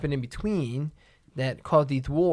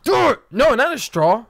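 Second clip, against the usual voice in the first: excited yell; 7 semitones higher, 7 dB louder than usual. Real, not acted. Daring partner, then protesting.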